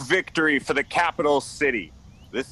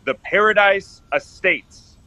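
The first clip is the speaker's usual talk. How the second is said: louder, showman reveal; grand announcement; 7 dB louder than usual. Acted. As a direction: present it to the crowd with a flourish. Developer unveils project to crowd.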